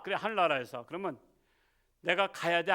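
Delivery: usual speaking voice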